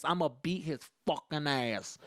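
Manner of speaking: slow, drawn-out "beat his fucking ass"; threatening mom. Retold or imitated. Mom threatens her son before his friends, dragging out "fucking ass". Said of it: "she said it like that".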